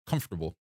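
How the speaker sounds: "Comfortable" said as KUMF-ter-bul, three syllables; careful pronunciation. Shown as a demonstration. Asked by chat to say "Comfortable", a careful pronunciation. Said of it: "can you pronounce comfortable".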